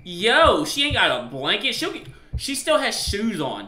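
high, loud, swooping exclamation; appalled disbelief. Real, not acted. Player telling chat about sleeping wife, appalled disbelief.

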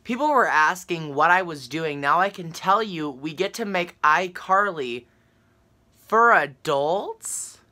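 each phrase weighed in disbelief, rising on adults; incredulous reread. Shown as a demonstration. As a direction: read it again like you can't believe it. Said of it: "Did I just read that right?".

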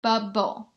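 "Bubble" in two distinct beats, BUB, BLE; split into syllables. Shown as a demonstration. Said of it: "There are two syllables".

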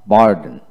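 বার্ডেন with the r sounded, American style; American r pronunciation. Shown as a demonstration. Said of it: "আমেরিকানে আর উচ্চারিত হয়". (বার্ডেন, American র সহ)

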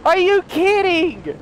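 loud, high, drawn-out complaint; frustrated shout. Real, not acted. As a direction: yell in disbelief at the game. Caught by the chaser.

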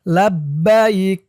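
লাব্বাইক ending on a silent ক with no vowel; pausal form. Shown as a demonstration. Teacher showing the pausal লাব্বাইক, slow. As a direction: stop on লাব্বাইক without the final আ. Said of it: "থামলে উচ্চারণ করবেন".

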